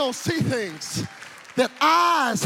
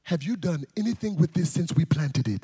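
low, measured dad questioning; deep, grave parental voice; stern father; 7 semitones lower than usual. Retold or imitated. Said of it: "and he said".

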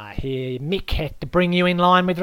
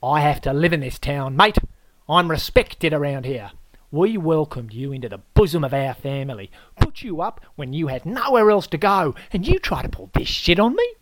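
loud, climbing higher with each mate; outraged Aussie rant; 5 semitones higher, 7 dB louder than usual. Acted. The host lectures the disgraced guest, loud and rising.

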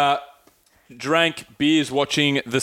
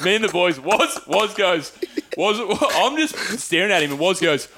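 ordinary talk, nothing marked

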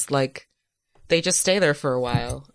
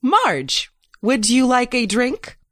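character voice; 7 semitones higher, slower than usual. Acted. Player voices robot Bailey.

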